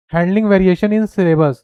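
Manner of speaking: very slow, each word spaced out; dictating a point; slow dictation. Shown as a demonstration. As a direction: read it slowly so students can write. Reading slide point aloud.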